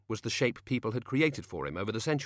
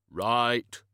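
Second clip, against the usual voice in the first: very slow, booming, grave voice; Death's voice; 3 dB louder than usual. Acted. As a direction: drag each word out like a tomb.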